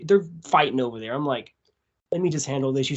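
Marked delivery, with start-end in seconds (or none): 2.1-2.9 understated, unbothered offer to step in; casual. Retold or imitated. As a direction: say it casually, no emotion. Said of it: "see me casually say".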